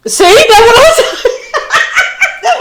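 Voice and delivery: high laughing squeal. Real, not acted. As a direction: crack up while saying it. Laughing at wrong spelling.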